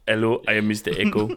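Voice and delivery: Mister Echo voice. Retold or imitated. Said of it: "doing the voice of Mister Echo from Lost".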